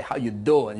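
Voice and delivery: lightly put-on New Yorker accent. Shown as a demonstration. Showing all he knows of New Yorker talk, light New Yorker accent. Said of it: "how to talk like a New Yorker".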